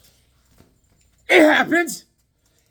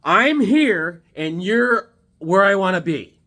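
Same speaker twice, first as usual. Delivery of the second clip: mock phone call; 3 semitones higher, 3 dB louder, slower than usual. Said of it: "You say".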